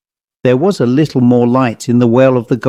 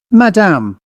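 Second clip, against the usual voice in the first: pleading; 7 semitones higher than usual. Acted. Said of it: "he pleaded".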